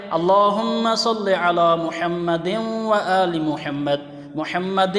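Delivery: slow chant joining محمد into وآل with the tanween merged; slow connected recitation with idgham between محمد and وآل; joined recitation. Shown as a demonstration. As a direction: recite slowly, running the dal of محمد into the waw. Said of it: "اگر ملا کے پڑھنا ہے".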